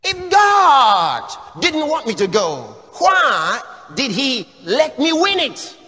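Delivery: loud, slow, whiny excuse; mock protest, slow and loud; mock indignant shout. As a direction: shout it like a believer justifying himself. Preacher voicing a believer's excuse.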